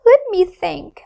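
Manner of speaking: high, musing moon voice; thoughtful moon. Acted. The moon deciding what to do, thoughtful. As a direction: ponder aloud.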